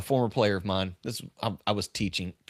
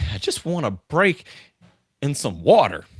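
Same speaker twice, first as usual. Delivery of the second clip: put-on a tired young player begging for a break, raised and higher; exhausted player; 3 semitones higher, 7 dB louder than usual. Crying player asks his coach for water, pleading. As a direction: plead for water like a worn-out kid. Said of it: "He's like".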